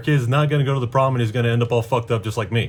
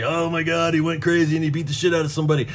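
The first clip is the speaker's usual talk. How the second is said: lightly mimicked gossip, higher and rushed; fast, higher mock-shocked report; mock alarmed onlooker; 5 semitones higher, faster than usual. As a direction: imitate a scandalized bystander. Mimics onlookers filming him.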